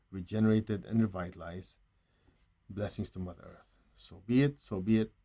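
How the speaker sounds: measured, rolling invocation; steady prayerful cadence, easing off at phrase ends; blessing prayer. Real, not acted. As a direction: lead a group in blessing the earth. Leads a blessing prayer in meditation.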